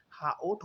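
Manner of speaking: हाओट broken into two sounds, हा and ओट; forced split. Shown as a demonstration. Students objecting to the teacher, हाओट forcibly split in two. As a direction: wrongly split हाओट into हा plus ओट. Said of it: "हाओट जो आप कर रहे हो, ये आप ज़बरदस्ती तोड़ रहे हो".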